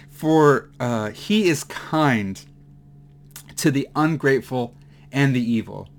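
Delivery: fighting back tears on the verse; choked up. Real, not acted. Preacher moved reading verse to congregation, choking up. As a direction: voice catching with emotion, slow. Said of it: "I have to pause this".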